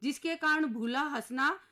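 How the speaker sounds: papa snapping back in rhyme, lightly shouted; mock yell. Papa scolding the children about mummy, a mild mock yell. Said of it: "सुनते ही पापा चिल्लाए".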